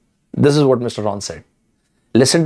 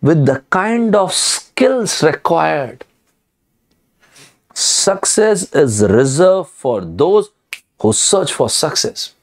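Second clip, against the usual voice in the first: slow, measured, spaced-out delivery; deliberate pronouncement; 2 semitones higher, slower than usual. Acted. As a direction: lay it out slowly, word by word. Slow emphatic statement to audience.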